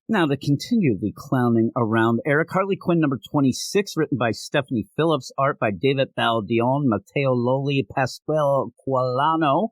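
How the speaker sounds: formal show-opening announcer read. Acted. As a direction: introduce it like a broadcast announcer. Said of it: "Why are you talking like that?".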